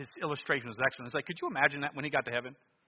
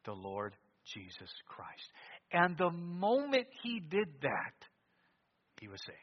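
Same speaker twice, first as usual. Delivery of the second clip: usual speaking voice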